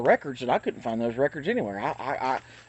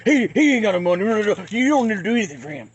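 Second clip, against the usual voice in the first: hammed-up scolding in a put-on voice, rushed at the end; mock angry warning, raised voice; mock cussing out; 4 semitones higher, 3 dB louder than usual. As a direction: imitate a man telling someone off. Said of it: "cussing them out for daring to talk to me".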